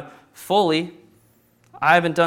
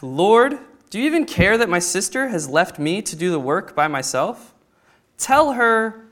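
mild complaint; 2 semitones higher than usual. Acted. Martha complaining to Jesus.

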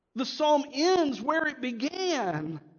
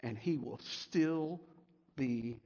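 very soft, low, slow; hushed close; 7 semitones lower, 5 dB quieter, much slower than usual. Real, not acted. Pastor closing tenderly, quiet and slow. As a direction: let it fall almost to a whisper. Whispered hush.

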